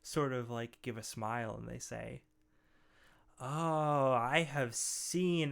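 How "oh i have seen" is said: lightly voiced huge ogre, slow; deep, gravelly ogre. Ogre smiling at a small visitor, slow gravelly voice. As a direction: draw it out like a big gentle ogre. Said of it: "deep, gravelly voice".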